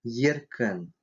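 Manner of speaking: Еркен opening on a soft Russian "ye"; soft Е sound. Shown as a demonstration. Teacher showing the letter Е, Еркен with soft "ye". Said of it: "Мягкий звук".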